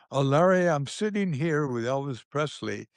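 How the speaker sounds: a hint of a Southern caller drawling. A singer's man phoning Larry, mild Southern drawl. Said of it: "the voice said with a southern drawl".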